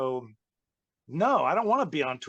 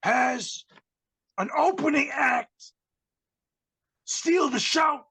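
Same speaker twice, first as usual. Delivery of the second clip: much higher, louder, drawn-out hammed-up yell; mock ranting shout; 12 semitones higher, 4 dB louder than usual. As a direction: bellow the comparison to a singer like a diva. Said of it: "and he's like".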